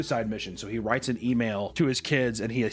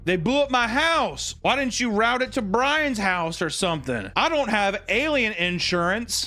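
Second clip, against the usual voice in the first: mock outrage; 7 semitones higher than usual. Podcaster imitating the hero about his house, mock outrage. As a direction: complain like an outraged homeowner. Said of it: "a funny moment where he's like".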